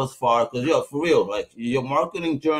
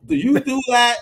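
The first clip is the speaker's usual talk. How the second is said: high mock wife; 12 semitones higher, 4 dB louder than usual. Wife's question retold.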